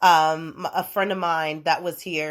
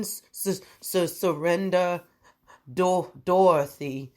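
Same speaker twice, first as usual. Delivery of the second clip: reading sky writing; slower than usual. Acted. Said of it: "reading the shit she was writing".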